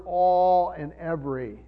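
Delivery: "all" and "every" set out with deliberate weight; stress on all, every. Real, not acted. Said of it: "I wanna emphasize the word".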